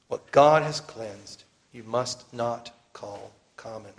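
slow, deliberate divine command; slow commanding voice from heaven. Retold or imitated. Preacher voicing heaven's command to Peter, slow and solemn. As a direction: lay down the heavenly command word by word. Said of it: "the voice from heaven gives the same command".

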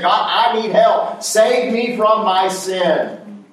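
slow, drawn-out plea to God; earnest acted sinner's appeal; calling out. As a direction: call on God for rescue, word by word. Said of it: "You call out".

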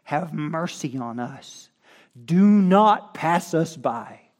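slow, high plea building to loud cries; crying out in prayer. Acted. Preacher pleads to the Lord for the church, crying out. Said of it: "crying out to the top of our lungs".

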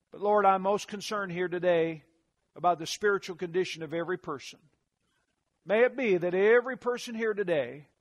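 earnest pastor's prayer voice. Acted. Leads a prayer.

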